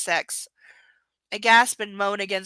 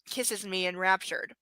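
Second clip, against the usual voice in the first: whispering. Acted. Whispered erotic reading.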